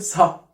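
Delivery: "س، ه" as s run into ha; wrong blend. Shown as a demonstration. Teacher showing the blend not to say, s plus h. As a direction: say "س، ه" as two letter sounds, not sh. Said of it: "ما ينفعش أقول".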